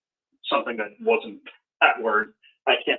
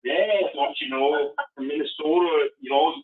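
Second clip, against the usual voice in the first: put-on playful Minnesota accent, higher pitched; 4 semitones higher than usual. Playing along about how cold it is there, in a mock Minnesota accent. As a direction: put on a folksy Minnesotan "don't you know". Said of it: "they talk different".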